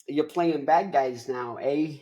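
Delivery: lightly voiced pushy movie big shot; a hint of an Italian-American wise guy; Al Pacino. Agent telling actor he's washed up, light impression. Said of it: "Al Pacino comes in, he goes like".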